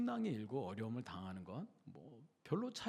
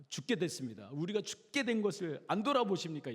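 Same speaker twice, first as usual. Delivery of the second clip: mildly alarmed appeal, rising in pitch; urgent plea; 4 semitones higher than usual. Acted. Disciples waking Jesus in the storm, urgent plea. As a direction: plead for help with mild urgency.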